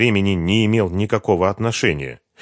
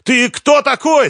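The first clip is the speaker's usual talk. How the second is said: very high, loud, slow yell; shout; 8 dB louder, slower than usual. A narrator's reading. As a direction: scream at the intruder. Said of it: "закричал".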